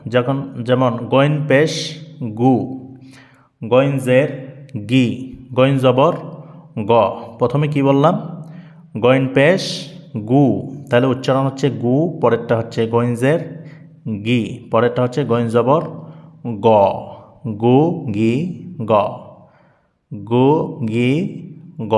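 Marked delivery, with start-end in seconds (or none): 1.0-6.9 slow chanted গু, গি, গ syllables; slow spelling drill. Shown as a demonstration. Teacher spelling গইন with each vowel mark. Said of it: "গইন অক্ষরে হারকাত দিব". 17.5-21.9 গু গি গ chanted one by one; practice drill. Shown as a demonstration. Teacher chanting গু গি গ for students to repeat. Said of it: "practice করুন".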